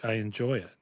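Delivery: talking around a burp; a burp slipping into the words. Real, not acted. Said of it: "I am burping because of the beer".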